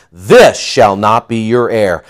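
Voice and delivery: stern. Acted. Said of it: "in a stern, direct manner".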